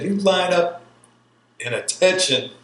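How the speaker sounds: high, loud orders to the recruits; drill instructor barking orders. Retold or imitated. Drill instructor ordering recruits to dump their drugs. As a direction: bark out the rules on the tarmac. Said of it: "And he said".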